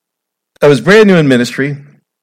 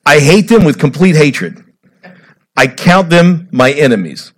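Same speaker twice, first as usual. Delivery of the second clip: raised, louder, hurling the words of hatred; dramatic reading; 3 semitones higher, 5 dB louder than usual. Acted. Preacher reads the psalm's hate verse, dramatically loud. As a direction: read it as a fierce declaration of hatred. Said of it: "can't get any more dramatic than this".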